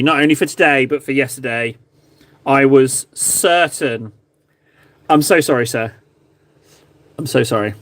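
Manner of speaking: hammed-up grovel. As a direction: beg forgiveness like a lowly servant. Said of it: "a little bit more groveling than apologizing".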